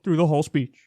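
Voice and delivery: halting politician delivery with long gaps; measured speech broken by stiff pauses; awkward pauses. Retold or imitated. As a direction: stop mid-sentence for an awkward pause. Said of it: "this is how he talked".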